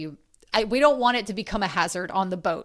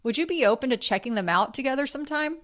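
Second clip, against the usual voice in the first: sweet suggestion; 4 semitones higher than usual. Shown as a demonstration. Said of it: "You can say".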